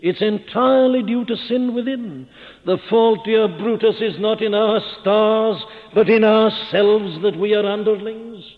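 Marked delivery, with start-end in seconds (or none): 2.7-8.4 raised pitch, louder, ringing out the line; declaimed quotation. Acted. Preacher quoting Brutus to the congregation, declaimed loud. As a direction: proclaim it to the whole hall.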